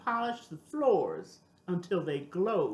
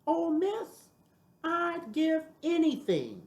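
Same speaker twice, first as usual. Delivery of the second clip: eager; 9 semitones higher than usual. Acted. Ernie eager about university job.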